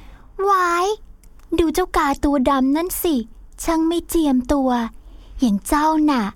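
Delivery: lightly voiced mocking birds; haughty sneering villainess. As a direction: jeer at him with a sneer. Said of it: "ต่างก็พากันหัวเราะเยาะ". (นกเย้ยหยันอย่างหยิ่งยโส)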